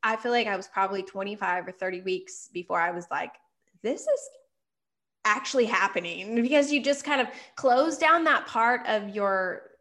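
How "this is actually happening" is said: amazed. Retold or imitated. Finally believing pregnancy.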